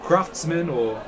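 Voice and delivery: a chatty townsman showing a stranger around; guide NPC. Acted.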